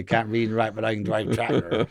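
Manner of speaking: light West Country farmer accent; a hint of rural West Country. Shown as a demonstration. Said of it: "I do revert back a little bit to wet country".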